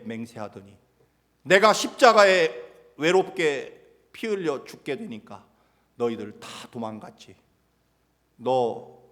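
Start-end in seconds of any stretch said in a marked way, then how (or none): 1.4-9.0 angry rebuke. Acted. Jesus berating Peter over his denial, loud angry rebuke. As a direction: scold the runaway disciples. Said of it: "예수님이 그렇게 말할 수 있으셨을 것입니다".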